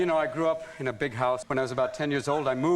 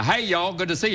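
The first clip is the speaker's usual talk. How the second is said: Southern accent; 5 semitones higher, 4 dB louder than usual. Shown as a demonstration. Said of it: "And you take the".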